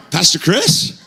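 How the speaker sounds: surprised recognition. Retold or imitated. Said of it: "they're like".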